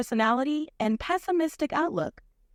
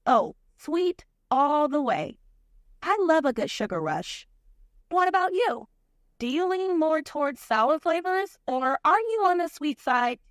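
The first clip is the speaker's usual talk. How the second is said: put-on Valley Girl accent. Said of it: "a Valley Girl accent".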